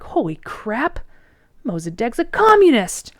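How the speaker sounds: mock alarm. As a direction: act out a hammed-up shocked discovery. Americans react in mock alarm.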